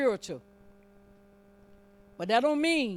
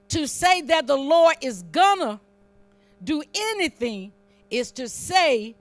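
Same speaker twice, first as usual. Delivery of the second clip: punched, deliberate preacher delivery; emphatic preaching; 3 semitones higher, 5 dB louder than usual. Real, not acted. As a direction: land each key word like a preacher. Preacher hammering a point.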